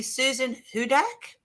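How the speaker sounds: HUDAK tried tentatively, rising like a question; unsure pronunciation. Real, not acted. Host unsure of a viewer's surname, tentative questioning pronunciation. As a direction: check the name "Hudak" with a questioning lift. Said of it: "Am I pronouncing that right?".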